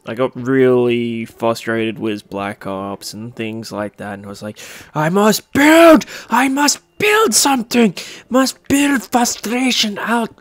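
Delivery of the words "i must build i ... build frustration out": put-on high, slow, loud German-accented declaration; mock German accent. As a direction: put on a hammed-up German voice, venting frustration. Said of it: "I don't know why I turned German".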